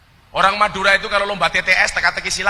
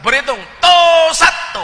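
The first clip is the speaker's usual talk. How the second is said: shouted, much higher Madurese count; Madurese drill count; 10 semitones higher, 7 dB louder than usual. Retold or imitated. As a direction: bark the count with a Madurese lilt. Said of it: "Madura nggak bisa". (hitungan logat Madura, berteriak tinggi)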